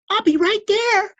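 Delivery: high, loud quick promise; eager librarian. A narrator's reading. Librarian promising to come, high and eager. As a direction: answer the call eagerly.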